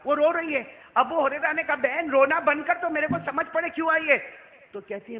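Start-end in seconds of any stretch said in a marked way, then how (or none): 1.8-4.3 urging. Acted. Urging the woman to stop.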